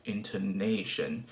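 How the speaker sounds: "intonation" with the weight on "na"; stress on NAY. Shown as a demonstration. Teacher showing English word stress, stressing "na" in "intonation". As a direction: lean on the third syllable of "intonation". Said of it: "the stress is on nay".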